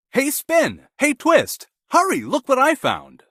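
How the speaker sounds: loud, high call across the yard. A narrator's reading. Cockerel calling the mice to his find, loud happy call. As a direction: call the mice over with excitement. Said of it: "called the mice".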